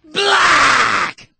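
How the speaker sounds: Black! as one long, high, falling yell; shouted emphasis. Real, not acted. Host repeating his point to birthers, shouted emphasis. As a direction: bellow "Black!" at full force, stretching the vowel. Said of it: "I'll say it again with emphasis".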